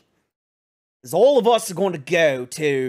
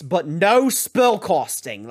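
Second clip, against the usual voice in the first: no spellcasting, with the word no stressed. Acted. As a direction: press hard on no in "no spellcasting". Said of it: "I can't stress that enough".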